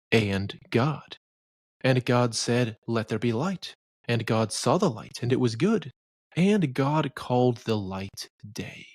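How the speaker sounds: measured, solemn Bible reading; scripture reading. Acted. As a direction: read it like the King James pulpit. Reads Genesis aloud as scripture.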